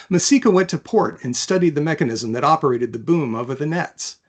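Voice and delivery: even, measured read-aloud of a novel; story narration. A narrator's reading. Author reading her fantasy chapter aloud, calm narration. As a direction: tell the story steadily to listeners.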